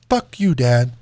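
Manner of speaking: imitating a toddler's loud defiant snap; loud retort. Toddler son yelling at his dad, loud mock retort.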